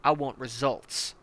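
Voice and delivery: hard-nosed commander barking orders at a recruit; menacing armored battalion commander; tank commander. Acted. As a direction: lean in like a brutal drill sergeant.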